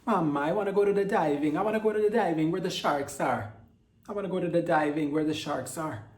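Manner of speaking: high, loud mock Italian accent sliding into Jamaican. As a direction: wail it in a hammed-up Jamaican-sounding Italian accent. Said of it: "sounds more Jamaican than Italian".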